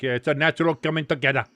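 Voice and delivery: quick, badly faked Scottish referee; comically poor Scottish accent. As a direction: attempt a rough Scottish accent. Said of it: "That's the worst Scottish accent you'll ever hear".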